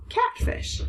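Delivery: Catfish whispered, level and settled; unvoiced soft final catfish; quiet confirming whisper. Shown as a demonstration.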